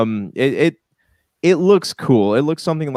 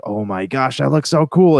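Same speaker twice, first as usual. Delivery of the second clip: imagined gushing reaction, rising louder and higher; hammed-up fan excitement; mock amazement; 4 semitones higher, 5 dB louder than usual. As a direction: pretend to be wowed. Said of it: "didn't have that wow factor".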